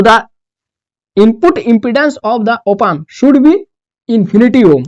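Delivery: slow, even run through the rule; stating the rule. Shown as a demonstration. Teacher states the next rule to the class, slowly. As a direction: say the rule once, slowly and evenly. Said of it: "वही resistance ही एक तरीके का है".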